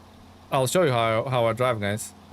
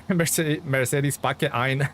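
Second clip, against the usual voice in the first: playful German accent, drawn out; much slower than usual. Shown as a demonstration. Streamer jokes about the pack name, German accent. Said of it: "say it with a German accent".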